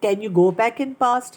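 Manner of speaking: very slow, tender question; loving self-question. Retold or imitated. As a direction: ask it gently, drawing out each word. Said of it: "پھر بہت پیار سے پوچھتی ہوں". (بہت پیار سے، بہت آہستہ پوچھنا)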